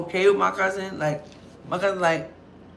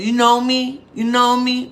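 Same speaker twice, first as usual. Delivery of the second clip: put-on drunk woman voice; 5 semitones higher, 6 dB louder, slower than usual. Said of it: "my cousin said".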